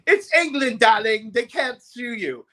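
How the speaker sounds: high, breezy, slowing at the end; campy promoter. Retold or imitated. Promo man dismissing the lawsuit fear, breezy and high. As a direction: wave off the worry like a camp handler.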